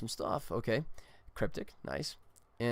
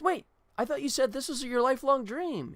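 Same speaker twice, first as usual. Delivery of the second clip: higher, mildly confused singer; a touch of sitcom bafflement; puzzled question; 11 semitones higher than usual. Retold or imitated. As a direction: ask why he's leaving. Quartet member puzzled.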